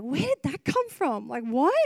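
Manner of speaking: mildly acted puzzlement, lifted pitch; puzzled mock question; baffled reaction. Preacher retelling their reaction to her sudden tears, baffled.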